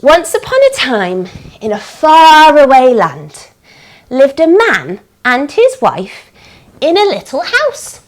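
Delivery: measured storytelling with lilting phrase ends; sing-song bedtime-tale pacing; story narration for children. A narrator's reading. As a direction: tell it to little children, phrase by phrase.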